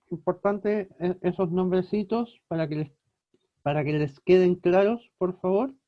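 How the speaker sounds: talking around a pencil in the mouth; words muffled by a pencil between the teeth. Real, not acted. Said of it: "Perdón que tengo un lápiz en la boca".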